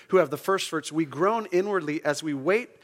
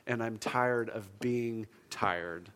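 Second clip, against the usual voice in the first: understated weariness, slightly lowered; weary inner groan; 3 semitones lower, 4 dB quieter than usual. Acted. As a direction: voice a tired sufferer, low-key. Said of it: "there's this groan inside of you that says".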